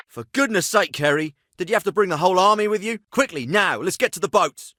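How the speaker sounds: urgent, fed-up reproach; exasperated scolding. Acted. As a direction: scold them while rushing them along. Scolds Kerry while fleeing to boats.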